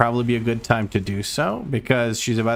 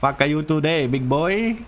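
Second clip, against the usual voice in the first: playful taunt; 6 semitones higher than usual. Real, not acted. Taunting boss.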